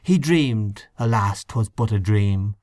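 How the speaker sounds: solemn recited verse; poem recitation. Acted. Hynes recites his poem to the room, solemn recitation. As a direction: recite it like a mourning elegy.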